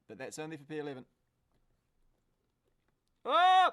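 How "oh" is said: sudden, much louder and higher Oh; shocked cry. Real, not acted. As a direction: jolt at a near miss. Sudden race scare.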